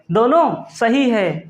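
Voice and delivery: "दोनों सही है" said slowly, weight on दोनों; slow emphatic repeat. Shown as a demonstration. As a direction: drag out "दोनों सही है" so it sinks in.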